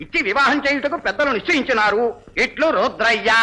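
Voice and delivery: measured invitation reading; reading aloud. Acted. Man reads a wedding card to the gathering, reading aloud. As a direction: read it out for everyone to hear. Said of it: "చదువుతాను, అందరూ వినండి".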